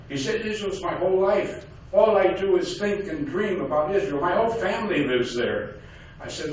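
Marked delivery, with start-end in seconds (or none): 0.4-5.8 put-on higher Yiddish-accented taxi driver; eager Yiddish accent, pitched up. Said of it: "he talked with a heavy Yiddish accent".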